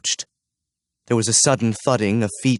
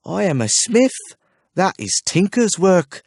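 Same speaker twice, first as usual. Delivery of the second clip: higher-pitched surly retort; 8 semitones higher than usual. A narrator's reading. Smith answers the archer, surly refusal. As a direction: sulk it back at him. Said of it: "replied in a surly voice".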